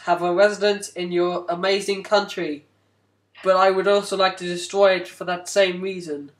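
lightly put-on American accent; typical American accent. Capitalist visitor asking receptionist for residence, American accent. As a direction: attempt a stock American villain's voice, American accent. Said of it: "a typical American accent".

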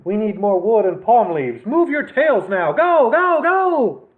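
rising to a high, loud urging; bossy calico. A narrator's reading. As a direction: drive the lazy cats on. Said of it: "said the short-haired calico".

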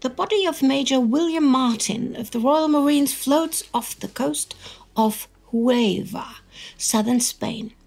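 serious newsreel narrator voice; dramatic narration. Acted. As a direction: read it like a wartime newsreel.

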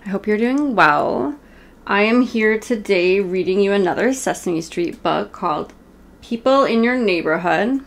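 ordinary delivery

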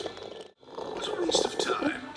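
disdainful sniff. A narrator's reading. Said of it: "she sniffed".

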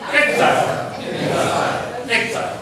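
exile said very slowly, syllable by syllable; slow exile demo. Shown as a demonstration. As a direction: spell out exile slowly for the class to repeat. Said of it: "大家做伙读". (慢慢示范读exile)

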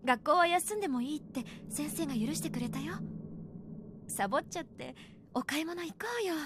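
soft, tender persuading; gentle coaxing. Acted. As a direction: coax her out softly. Mother coaxing daughter gently.

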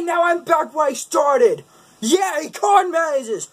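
a lightly voiced hyper kid lost in a corn maze; Gene Belcher. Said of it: "Gene Belcher talking about corn mazes".

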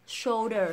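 "shoulder" with dark L before "der"; correct shoulder. Shown as a demonstration. Teacher reviewing, "shoulder" with full L. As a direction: keep the L in "shoulder". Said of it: "đẩy lưỡi lên".

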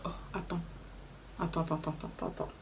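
frozen in disbelief, murmuring; stunned disbelief. Retold or imitated. Hearing the bus fare price, quiet stunned disbelief. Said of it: "je suis restée comme ça en mode".

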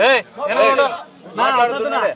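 loud, high call over the crowd. Real, not acted. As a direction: shout the crowd down to restore order. Official calming a shouting crowd.

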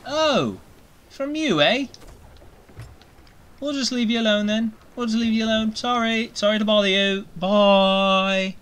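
high timid sorry-to-bother-you voice; non-threatening pirate voice. Acted. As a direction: back away politely in a tiny voice. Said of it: "non-threatening pirate voice here".

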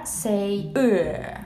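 "ö" with a rounded vowel; Russian r sound. Shown as a demonstration. Teaching viewers the Russian sound, rounded. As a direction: say "ö" with rounded lips. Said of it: "Instead of r".

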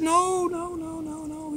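high, trailing string of no's; alarmed refusal. Acted. Other mice to the curious little mouse, alarmed refusal. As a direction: fuss a quick high warning of no.

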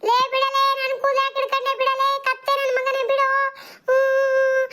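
put-on squabbling kids. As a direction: play kids trading insults and pulling hair. Kids quarrel, hair pulling.

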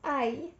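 high, short "ouch" cry; pained yelp. Acted. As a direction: yelp from a sudden fall. Falls off stool, cries out.

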